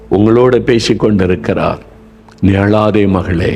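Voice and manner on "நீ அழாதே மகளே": slow, tender reassurance; gentle comforting. Acted. Jesus to a lonely weeping daughter, slow and gentle.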